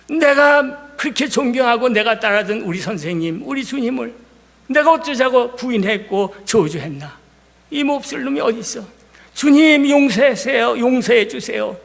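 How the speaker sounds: voicing Peter's remorse, rising to a cry at 주님; mild weeping plea. Preacher voicing Peter begging the Lord's forgiveness, mock tearful cry. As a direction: imitate a man pleading through tears, understated. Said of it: "막 울면서 몸부림쳤다고".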